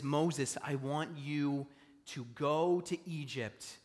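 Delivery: slow, deliberate voice of God calling; God calling Moses. Retold or imitated. Pastor voicing God calling Moses, slow and deliberate. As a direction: lay each word down like a summons. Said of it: "he says".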